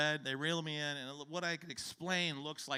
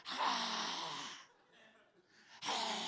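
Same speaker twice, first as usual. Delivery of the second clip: dry heave groans; 2 semitones lower than usual. Retold or imitated. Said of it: "out here is".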